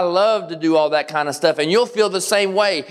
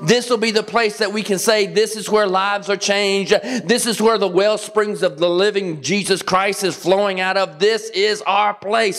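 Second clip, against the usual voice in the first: proud declaration; 4 semitones higher than usual. Pretend. Proud congregation declaring their church.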